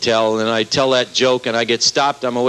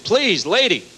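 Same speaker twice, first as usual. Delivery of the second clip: higher, timid little plea; meek pleading; 8 semitones higher, slower than usual. Retold or imitated. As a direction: beg like a cowed fool. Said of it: "like a dummy saying".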